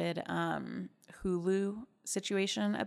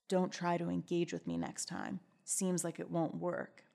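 put-on softer, slowing boyfriend voice; boy voice; 6 dB quieter than usual. Boyfriend brushing her off by text, lightly put-on boy voice. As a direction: read it as a subdued, dismissive boyfriend, lightly voiced. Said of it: "I'll do the boy voice".

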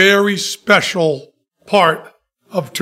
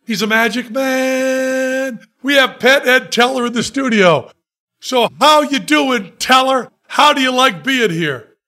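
higher, upbeat on-air host voice; radio DJ voice; 4 semitones higher than usual. Retold or imitated. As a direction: play the cheery morning DJ going live. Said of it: "DJ on air voice".

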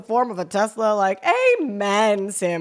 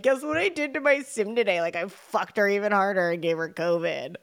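smug nihilist god. Retold or imitated. Nihilist sim god bragging to friends, lightly mocking voice. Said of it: "a nihilist up there being like".

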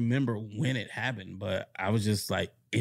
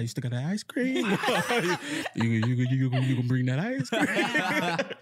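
excited begging; 5 semitones higher than usual. Retold or imitated. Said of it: "I'm like".

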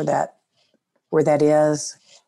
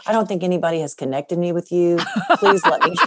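laughing plea; 3 dB louder, faster than usual. Retold or imitated. Son begging mom stay anonymous.

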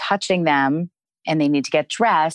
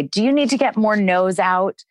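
a touch higher, playful question; light and playful; 5 semitones higher than usual. Shown as a demonstration. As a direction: keep it light, half teasing. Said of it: "kind of keep it light".

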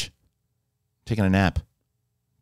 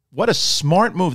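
usual speaking voice

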